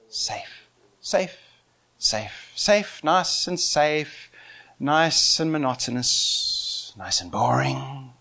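slow, low, droning drawl; dull, dragged-out words trailing into boredom; mock monotony. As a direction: drone it out as if bored stiff. Mocking dull safe church.

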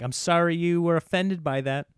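mock the half-hearted sorry; weak apology. Shown as a demonstration. Husband mimics a dismissive apology, mildly snide. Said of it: "weak apology where it's like".

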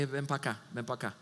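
soft, low furtive call; hushed beckon. Retold or imitated. Religious leaders quietly calling a disciple outside. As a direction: call him over under your breath.

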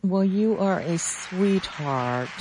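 slow, touched and tender; moved, holding back tears; tearful goodbye. Real, not acted. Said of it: "now I'm gonna cry now".

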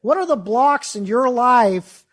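a light hint of Doctor Phil, very slow. Mimicking Doctor Phil to the actor, slow TV-host voice. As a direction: drawl it slow like a TV therapist. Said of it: "he shows up and is like".

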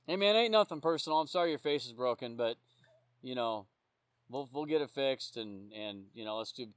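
low, soft, easygoing reassurance; consoling. Retold or imitated. Officer to the man he arrested after a fight, consoling. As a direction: talk him down quietly and low.

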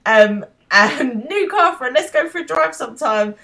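high, loud unhinged rant; manic rant. Retold or imitated. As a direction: rant it out, completely lost it. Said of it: "he's like".

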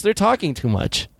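put-on high whiny child voice; pinched kid voice. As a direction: whine it like a bored little kid. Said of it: "that's my kid voice".

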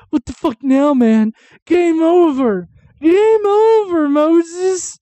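high, loud, drawn-out wail of despair; shrieking game over in mock panic; panicked mock yell. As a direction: ham up the trapped crowd screaming at Moses. Israelites panicking, retold by S1.

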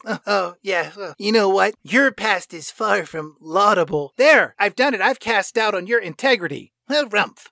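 fussy huffy gentleman; mild mock-offended huff; prissy Jekyll. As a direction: sniff it out like a pompous Victorian. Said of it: "Doctor Jekyll says".

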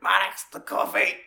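high, loud call across the room; mock shout. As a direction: yell his name like you want your coffee now. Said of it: "shouts to him".

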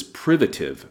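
privative said PRI-va-tive, accent on PRI; stress on first syllable. Shown as a demonstration. Teacher corrects the stress of privative, first syllable stressed. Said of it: "the accent is on the first syllable like the word primitive".

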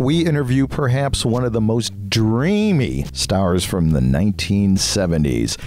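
bright, punchy announcer promo over music; promo read. Acted. Host reads a promo for his celebrity interview segment, bright announcer voice. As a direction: sell the show like a radio ad.

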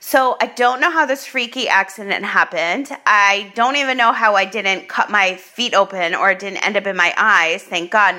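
usual speaking voice

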